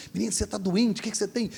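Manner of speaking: high, scolding father woken up; angry father. Retold or imitated. Father woken by the light at midnight, scolding angrily. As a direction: snap at the boy for the light. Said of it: "E começou a brigar".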